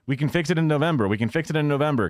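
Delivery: quick mocking parrot of a stock line; mocking politician. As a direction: rattle it off like a lazy excuse. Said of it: "going for the".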